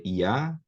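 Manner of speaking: Iavé, said ia-VÉ in two separate syllables; probable original pronunciation. Shown as a demonstration. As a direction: say Iavé as a short iá, then a stressed open vé. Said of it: "essa vocalização aqui".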